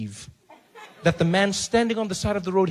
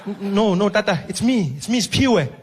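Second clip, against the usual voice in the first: louder, laughing reassurance; nervous driver; 5 dB louder than usual. Acted. Driver reassures confused Mandela, louder and laughing.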